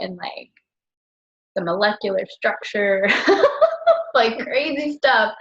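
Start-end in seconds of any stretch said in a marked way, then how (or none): 3.6-5.3 words laughed out slowly; chuckling through the words; laughing. Real, not acted. Laughing about the talkative caller, slow chuckle.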